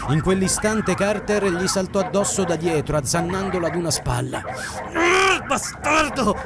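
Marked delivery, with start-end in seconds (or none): 4.4-6.4 high pained angry yell. A narrator's reading. Bitten man yelling at the dog. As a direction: roar as the dog bites. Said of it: "sbraitò Mirko".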